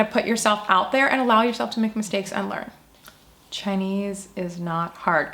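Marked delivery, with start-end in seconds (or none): 3.5-5.3 measured, emphatic slogan to be echoed; slow repeat-after-me demo. Shown as a demonstration. Teacher coaching learners to repeat that Chinese isn't hard, slow and deliberate. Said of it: "Come on, repeat it with me".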